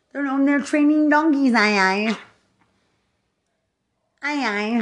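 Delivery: 높고 크게 비웃는 고함; 조롱하듯 목청 높여 외쳐; mocking shout. Real, not acted.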